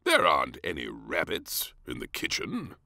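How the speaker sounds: a hint of a fatherly king; mild exclamation from dad; lightly voiced king exclaiming. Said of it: "exclaimed the King".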